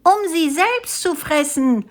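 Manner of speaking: high-pitched crowd heckle; monkeys' bellow. A narrator's reading. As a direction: jeer it out as outraged monkeys. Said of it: "brüllten die Affen".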